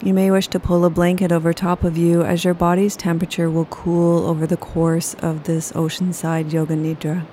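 ordinary talk

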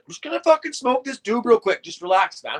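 high, loud chilled-out dude; laid-back stoner voice. Retold or imitated. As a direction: brush off worry, totally relaxed. Rory lighting a joint.

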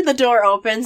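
ordinary talk

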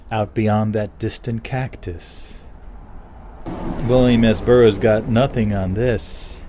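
slow, hushed ceremonial voice; mock mystic intonation. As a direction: drawl it like a shaman.

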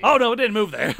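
put-on Texas accent. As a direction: play a rich Texan. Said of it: "moved to Texas and got accents".

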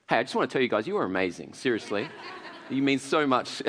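low, soft, pretend-sincere praise; mock heartfelt affirmation. Preacher demonstrating words of affirmation to the audience, mock heartfelt. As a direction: gush quietly, as if deeply sincere.

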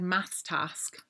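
task with the short A of maths; short-A rhyme. Retold or imitated. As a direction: maths task rhyming, task as "tassk". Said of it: "maths and task rhyme to me".

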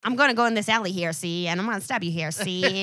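a light hint of a 1930s New York tough-guy voice; old-timey gangster. Mocking Ben Grimm as an old-time Brooklyn tough, lightly voiced. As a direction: play it like a newsie hood, see. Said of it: "Who speak like this".

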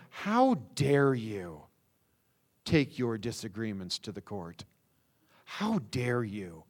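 slow, indignant How dare you; a restrained, reproachful outrage; quietly appalled How dare you; outraged rebuke. Retold or imitated. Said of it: "You can get the tone right away".

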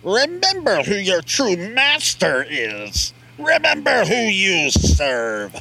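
slow, high, stately crane voice; stately honking crane. Acted. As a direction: speak slowly like a regal crane lord. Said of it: "on the Crane voice".

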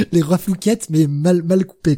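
laughing through the word, high; giggling mockery. Real, not acted.

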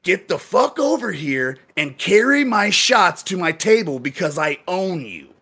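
mock yell starting high, easing down; imitated yelling. Bartender acting out the owner's demand, mild mock yell. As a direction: imitate an overbearing customer giving orders. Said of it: "he's starting to yell".

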